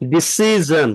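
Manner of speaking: ডিসিশন ending in zhun, not shun; correct zhun ending. Shown as a demonstration. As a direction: say ডিসিশন with a z sound at the end. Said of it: "not শন".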